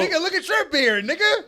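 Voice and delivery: loud high teasing yell; mock shout. Real, not acted. Roasting a friend's beard, loud teasing yell.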